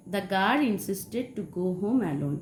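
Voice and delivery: very slow, word by word; slow dictation. Shown as a demonstration. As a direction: read it slowly for the class to copy. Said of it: "example sentence". (ধীরে ধীরে পড়ে শোনানো)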